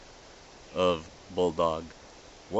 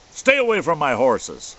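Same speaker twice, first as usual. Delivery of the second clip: booming, roared warning, pitched up; bellowing threat; 6 semitones higher, 10 dB louder than usual. Retold or imitated. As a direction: bellow it like a huge man guarding his horses. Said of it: "him bellowing at us".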